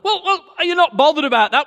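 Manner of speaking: high, fast, exasperated question; can't believe she's not worried. Retold or imitated. Husband pressing his calm wife, high and fast. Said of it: "I'm like".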